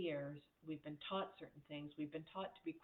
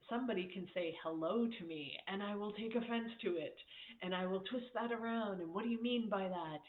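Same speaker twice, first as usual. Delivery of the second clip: louder, higher mock defensive snap; mock offended; 3 semitones higher, 5 dB louder than usual. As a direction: act touchy and take offense. Acting out taking offense.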